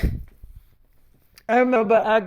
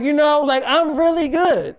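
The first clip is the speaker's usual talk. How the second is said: put-on higher-pitched, self-assured girlfriend quote; insistent boasting; 5 semitones higher, 3 dB louder than usual. Girlfriend bragging to boyfriend about her acting, insistent. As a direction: play up her confidence, pitch lifted.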